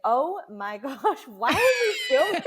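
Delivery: incredulous high mock scoff; husband scoffing. Wife imitating husband scoffing at filming the test, incredulous high voice. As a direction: imitate him scoffing at the idea.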